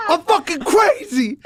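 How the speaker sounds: high laughing, close to tears; laughing hard. Real, not acted. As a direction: laugh so hard it nearly cries. Laughing fit after story.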